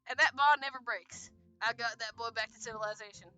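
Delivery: put-on light Southern US accent; understated southern-accented storyteller. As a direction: give the character a touch of Southern twang. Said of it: "I'm giving Robert a southern accent".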